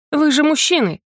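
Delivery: put-on high, sharp protest at cowardly boys; indignant outburst. A narrator's reading. Narrator to fleeing young men, indignant shout. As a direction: scold them, outraged. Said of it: "возмутилась я".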